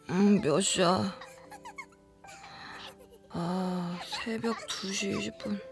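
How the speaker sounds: slow, soft, sleepy mumble to self; groggy waking. Acted. Woman woken at night checking the time, groggy. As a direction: drag the words out, half asleep.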